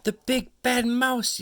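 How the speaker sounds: high loud scream of fright; panicked child yell; terrified yell. Acted. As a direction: shriek it and run. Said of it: "yelled the Gruffalo's child".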